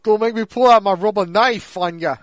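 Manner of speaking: light mock Bronx tough guy; playful threat with a touch of Bronx accent. Co-host joins in the dub parody with a threat, light Bronx accent. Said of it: "this, like, Bronx accent".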